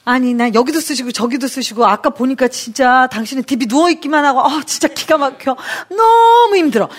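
a hammed-up wife's whine, rising to a cry; whiny complaint. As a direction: complain to your husband like you're fed up. Wife complaining to husband.

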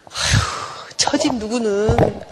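sighing, drawn-out complaint; sigh, then stretch out the reproach; nagging mother. Acted. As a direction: imitate an exasperated mum comparing children. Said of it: "이 집 엄마가 막 뭐라 그래요".

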